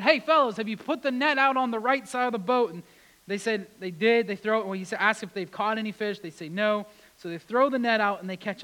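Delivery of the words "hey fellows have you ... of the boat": loud, high call across water; calling out from shore. Retold or imitated. Stranger on shore calling to fishermen, loud and high. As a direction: call out to the boat. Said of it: "the man yells out and says".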